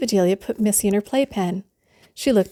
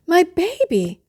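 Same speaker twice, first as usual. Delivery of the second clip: upset mother; 10 semitones higher, slower than usual. Acted. Missus Lane alarmed.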